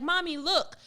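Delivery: lightly voiced excited child; a hint of a small daughter; little girl voice.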